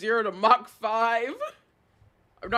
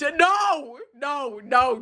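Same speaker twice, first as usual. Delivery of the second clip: emphatic refusal; 2 semitones higher, much slower than usual. Real, not acted. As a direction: shut it down at once. Refuses the chat's suggestion.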